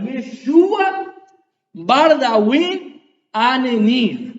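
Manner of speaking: slow, careful "Yeshua Bar Dawid Aneni"; Aramaic pronunciation. Shown as a demonstration. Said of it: "clases de arameo". (pronunciación aramea lenta de "Yeshua Bar Dawid Aneni")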